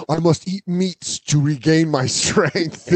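Viking. Acted. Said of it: "Viking shut ourselves off".

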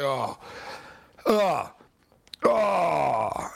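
drawn-out groans of "oh"; dismayed groan. Retold or imitated. Radio host reliving a bad overturned call, dismayed groaning.

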